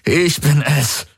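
slow, high, strained words; forced out. A narrator's reading. Garland convincing Kirai, slow and strained. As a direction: squeeze it out through pain. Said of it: "brachte Garland hervor".

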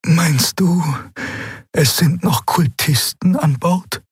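high bird creature voice, slow and hushed; lightly hushed high alien voice; hushed question. Acted. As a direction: ask it hushed, afraid of being overheard. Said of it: "Sie sprach mit gesenkter Stimme".

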